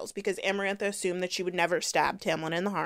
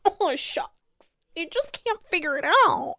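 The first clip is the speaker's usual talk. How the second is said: much higher, dim-witted mock voice; mocking Feyre; 11 semitones higher, 3 dB louder than usual. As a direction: make her sound clueless, sing-song. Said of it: "she's like".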